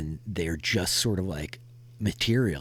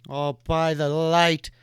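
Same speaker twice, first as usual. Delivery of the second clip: startled rider; 11 semitones higher, 15 dB louder than usual. Acted. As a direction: gasp at who they are. Martin alarmed by strangers.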